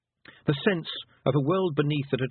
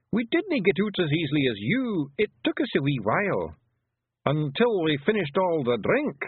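higher Scottish pictsie voice; shifty Feegle; 5 semitones higher than usual. Acted. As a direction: make a sheepish Scots excuse. Feegle makes a sheepish excuse.

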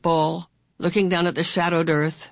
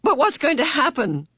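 trembling voice; 10 semitones higher, 4 dB louder than usual. A narrator's reading. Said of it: "Meg's voice trembled".

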